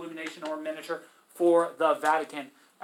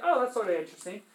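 mock modest; 3 semitones higher, faster than usual. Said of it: "I'll be like".

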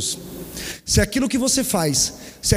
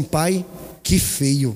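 put-on child's scolding; 5 semitones lower, much slower than usual. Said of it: "Aí o Theo falou assim".

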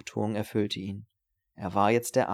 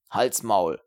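growled; 7 dB louder than usual. Acted. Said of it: "knurrte Steiner".

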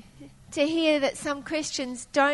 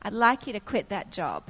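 softly voiced, gentle request; quiet, kindly guidance; 3 semitones lower, 5 dB quieter than usual. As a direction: say it gently, letting the voice drop at the end. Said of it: "the voice of the Lord very gently say".

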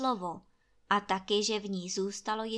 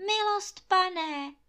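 much higher, louder desperate plea; desperate cry; 9 semitones higher, 5 dB louder, slower than usual. A narrator's reading. Anče crying out to the landlord as if for her life. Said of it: "křičí Anče, jako by šlo o život".

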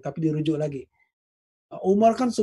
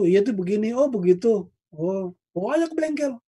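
higher, offhand brush-off; mock dismissive reply; 5 semitones higher than usual. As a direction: toss off the advice like it's nothing.

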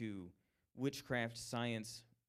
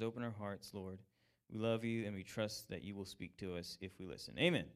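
leading the group in prayer before teaching. Real, not acted. Opening prayer before the lesson.

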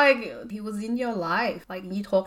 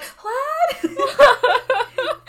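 high, loud incredulous yelp with laughter; mock shock; 7 dB louder than usual. Imagined reaction to being dumped after comedy, mock shocked. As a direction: blurt it in hammed-up disbelief.

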